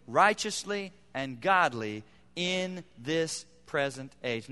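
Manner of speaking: slow, weighty reading of the verse; slow scripture reading. Acted. Pastor reading Titus to the congregation, slow and weighty. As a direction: read it out slowly, letting each phrase land. Reads Titus passage aloud.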